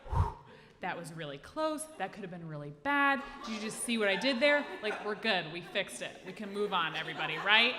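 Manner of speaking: loud, relieved and proud; relieved bravado. Retold or imitated. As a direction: brag with giddy relief. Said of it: "I was like".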